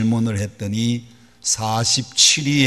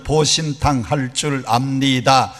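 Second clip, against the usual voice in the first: drawn out, slow Seoul-style reply; slow Seoul answer. Retold or imitated. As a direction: spell out the full polite answer slowly. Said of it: "얼마나 짧고 빠른지 모릅니다". (느릿한 서울말 대답)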